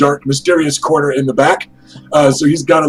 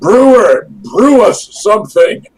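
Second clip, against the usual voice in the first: loud, high-pitched hollering shout; 6 semitones higher, 4 dB louder than usual. Voicing a noble calling across a tavern to the brewer: shouting for the brewer. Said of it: "he just shouts".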